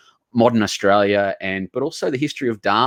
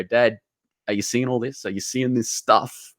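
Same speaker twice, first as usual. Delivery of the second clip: emotional; 4 dB quieter than usual. Real, not acted. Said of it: "I'm getting emotional".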